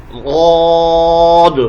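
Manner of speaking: غاد held long and chanted; drawn-out letter name. Shown as a demonstration. Teacher modelling the letter for students, sung and long. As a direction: stretch غاد like a recitation. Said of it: "اور".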